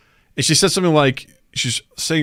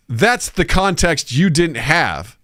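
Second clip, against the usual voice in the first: full sentence, clarified; 4 semitones higher, much slower than usual. Retold or imitated. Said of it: "I didn't hear that part".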